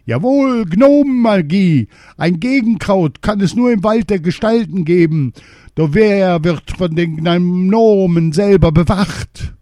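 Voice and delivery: very high, loud excited cry; king shouting. A narrator's reading. Poisoned king shouting to his maid, very high. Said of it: "Wieder schrie der König".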